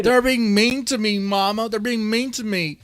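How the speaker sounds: high, loud whining to mama; mock crybaby whine. Streamer mocking a complaining creator, high loud crybaby whine. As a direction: whine like a tattling child, mocking him.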